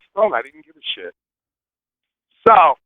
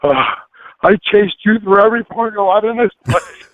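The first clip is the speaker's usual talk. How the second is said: imitating a winded guard, higher, after a big exhale; out of breath; 4 semitones higher than usual. Winded guard confronting the driver he chased, mock out of breath. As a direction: heave a breath, then complain. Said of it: "he's breathing hard and heavy".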